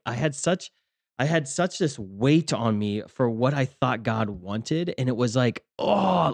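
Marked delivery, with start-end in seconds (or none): 5.8-6.3 higher-pitched groan of frustration; pained groan. Retold or imitated. Speaker recalling the painful weight of waiting, pained groan. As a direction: groan as if it hurts. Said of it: "like, it hurt and it was painful and it was frustrating".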